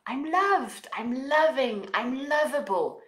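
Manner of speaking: affirmation. Shown as a demonstration.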